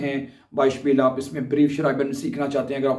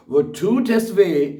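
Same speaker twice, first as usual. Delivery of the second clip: "Wo tut es weh?" drawn out very slowly and louder, each word apart; slow dictation; 4 semitones higher, 4 dB louder, much slower than usual. Shown as a demonstration. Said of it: "ये जुमला भी बोला जा सकता है".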